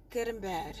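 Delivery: quiet, low aside; hushed aside. Real, not acted. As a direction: drop right down after the outburst. Hushed aside after the outburst.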